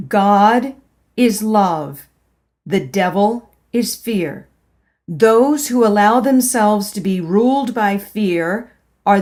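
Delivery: loud, solemn scolding voice of God; stern inner voice. Acted. Inner voice scolding the narrator, stern and loud. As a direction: proclaim it like a stern divine rebuke. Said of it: "a stern but soundless scolding".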